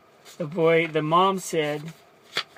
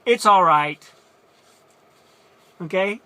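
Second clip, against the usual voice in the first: insisting; 3 semitones higher, 10 dB louder than usual. Retold or imitated. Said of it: "this is her response".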